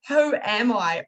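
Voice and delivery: retold question through a hint of tears; tearful question. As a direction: ask it as the tears come. Retold breakdown, crying.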